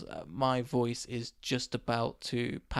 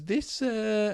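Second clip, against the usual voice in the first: higher, imitated Indonesian driver's accent; uncertain foreign accent; 7 semitones higher than usual. Indonesian taxi driver pointing at passenger's hand, unplaceable mock accent. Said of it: "don't know what accent that was".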